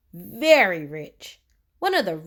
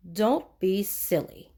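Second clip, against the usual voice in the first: snorting; 4 dB quieter, slower than usual. Acted. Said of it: "snorted Mister Uppity".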